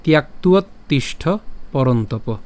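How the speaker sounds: slow, measured Sanskrit verse; verse recitation. Shown as a demonstration. Teacher reciting a shloka for learners, slow and measured. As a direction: recite the shloka slowly and carefully. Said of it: "শুদ্ধভাবে আমি পুরোটিকে হচ্ছে ভেঙে".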